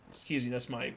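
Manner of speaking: talking through hiccups; interrupted by a hiccup. Real, not acted. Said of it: "I'm hiccuping a lot".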